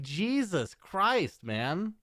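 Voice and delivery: ordinary talk, nothing marked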